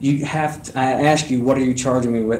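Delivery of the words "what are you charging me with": ordinary talk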